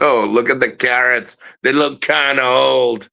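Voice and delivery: hammed-up whiny retiree; mock complaining. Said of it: "they're complaining about".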